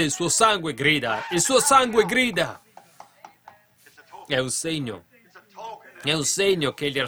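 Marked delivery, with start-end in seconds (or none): 1.3-2.6 high, loud, slower repeat; emphatic cry. Acted. Preacher crying out God's words about Abel's blood, emphatic. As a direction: cry it out from the pulpit, drawn out.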